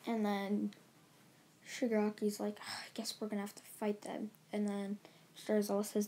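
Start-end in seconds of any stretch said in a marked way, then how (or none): 2.6-4.3 hushed whisper. Retold or imitated. Shigaraki whispers to his team about fighting, hushed. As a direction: whisper it like a villain plotting. Shigaraki voiced in retold story.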